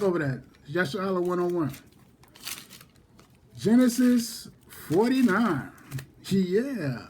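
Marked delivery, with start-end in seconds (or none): 3.6-7.1 slow, higher, drawn-out movie-star impression; Morgan Freeman. Teacher jokingly calls out the chapter, lightly imitating an actor. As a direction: stretch it out in a lightly put-on film voice. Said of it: "In my Morgan Freeman voice".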